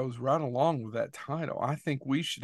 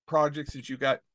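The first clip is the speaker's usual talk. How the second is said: talking through hiccups; hiccuping mid-sentence. Real, not acted. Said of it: "Excuse me, I've got the hiccups".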